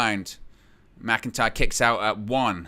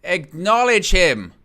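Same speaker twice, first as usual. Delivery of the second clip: slow, loud, high exclamation; astonished exclamation; 4 semitones higher, 6 dB louder, slower than usual. Real, not acted. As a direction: draw it out loudly in disbelief. Astonished call of wrestler's arrogant demand.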